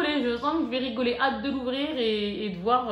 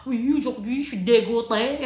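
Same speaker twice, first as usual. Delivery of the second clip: a louder, put-on grumble of a fed-up day; mock fed-up diary line; 5 dB louder than usual. A mother voicing her diary entry, mock fed-up. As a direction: sulk it out as if writing in the diary. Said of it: "Je vais écrire".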